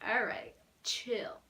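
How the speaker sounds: slow whispered "all right, chill". Retold or imitated. Fan calming excited Jacob, slow whisper. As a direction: hush him down in a whisper.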